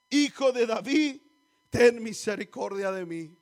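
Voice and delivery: loud, drawn-out cry for mercy. Retold or imitated. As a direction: call out slowly and forcefully, like a beggar pleading. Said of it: "él empezó a gritar más fuerte".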